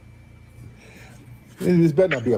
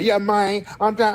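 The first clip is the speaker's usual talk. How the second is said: higher-pitched imitation of a forced Ebonics accent; mock Ebonics accent; 8 semitones higher than usual. Host mocking a caller's put-on talk, mock Ebonics accent. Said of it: "the fake forced accent you're trying to do".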